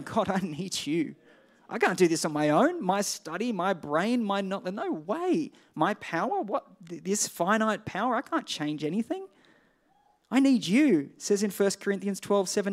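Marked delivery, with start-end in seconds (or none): 0.0-11.1 pleading with rising swoops on key words; acted helpless plea. Preacher voicing believers crying out to God, helpless plea. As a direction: plead as if overwhelmed and dependent, acted out. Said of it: "It's a symbol of our dependence".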